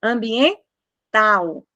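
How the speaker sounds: ambiental stretched very slowly, AU together; teacher drawing out ambiental; slow demo. Shown as a demonstration. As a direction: draw out ambiental to show the diphthong. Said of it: "Então".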